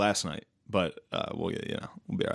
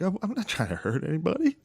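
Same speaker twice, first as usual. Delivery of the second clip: higher, softer fake-innocent voice; lightly voiced about to cry; mock choked-up self; 7 semitones higher, 4 dB quieter than usual. Retelling network meeting, higher choked-up plea. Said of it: "I was like".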